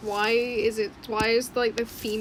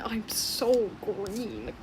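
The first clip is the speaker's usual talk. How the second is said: slow, drawn-out I'm so green; quoting the green one; 3 semitones lower, much slower than usual. Retold or imitated. Telling viewers the green one's only line, slow. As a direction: stretch it out like the little green ball. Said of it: "That's all it says is".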